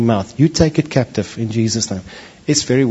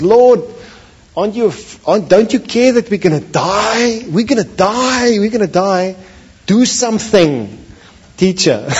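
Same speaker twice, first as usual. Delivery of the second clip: panicked cry; 7 semitones higher than usual. Acted. Fisherman waking Jesus in the storm, in a panicked high cry. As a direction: scream for help over the storm.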